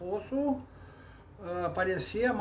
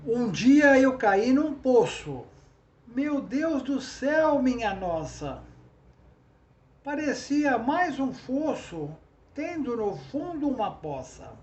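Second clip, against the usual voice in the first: verse recitation; 3 semitones higher than usual. Shown as a demonstration. Teacher reciting an example trova, verse recitation. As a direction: recite the little verse line by line.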